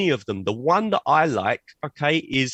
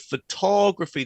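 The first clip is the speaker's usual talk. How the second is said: "photography" lifted higher on TOG, then falling; stress on second syllable; 4 semitones higher than usual. Shown as a demonstration. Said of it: "the stress moves to the second syllable".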